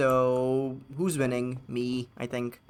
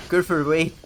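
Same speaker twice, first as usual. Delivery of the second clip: louder, urgent shout; urgent call; 3 semitones higher, 7 dB louder than usual. Real, not acted. Streamer yelling at robot helper, urgent shout. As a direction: call out to stop it.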